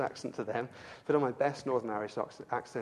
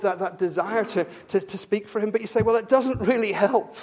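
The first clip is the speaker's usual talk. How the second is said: raised, urgent pulpit voice; impassioned preaching; 5 semitones higher, 5 dB louder than usual. Real, not acted. Preacher voicing the congregation's burden to speak, impassioned. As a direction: preach it louder, pushing each phrase.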